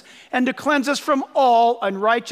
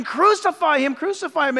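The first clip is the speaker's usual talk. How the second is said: mild mock shout; 4 semitones higher than usual. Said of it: "They're shouting".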